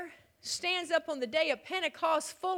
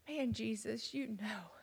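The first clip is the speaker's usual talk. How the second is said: softer, fading into a whisper; hushed confession; 5 semitones lower, 12 dB quieter than usual. Acted. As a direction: confess it almost inaudibly. Peter's third answer, hushed.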